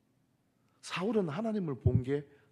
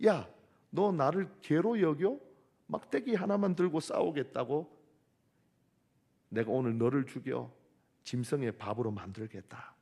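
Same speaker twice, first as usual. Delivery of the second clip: Goliath mocking. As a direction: sneer at the boy with a stick. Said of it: "조롱합니다".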